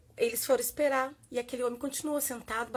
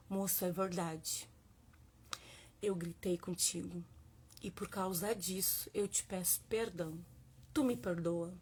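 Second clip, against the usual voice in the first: humble apology; 3 semitones lower, 5 dB quieter than usual. Retold or imitated. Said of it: "a única coisa que eu consegui dizer".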